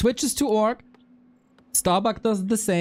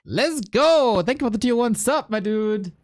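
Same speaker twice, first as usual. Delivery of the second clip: excited donation thanks; 5 semitones higher than usual. Real, not acted. Thanking subscriber on stream.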